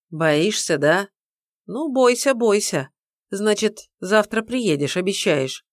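mocking mother-in-law on the phone; taunting woman. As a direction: tease him for being afraid.

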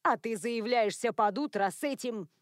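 plain reading voice

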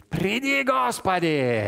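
loud, high, drawn-out cry; the bride crying out for her Lord to come. Acted. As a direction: call out to the Lord from far off, slowly. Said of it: "она кричит".

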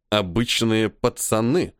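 "Обычные пацаны" slow, leaning on "Обычные"; gloomy stress on "Обычные". A narrator's reading. Major repeating the colonel's word back to him, slow stress on "Обычные". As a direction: weigh the word "Обычные" sourly and slowly. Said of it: "хмуро выделив слово".

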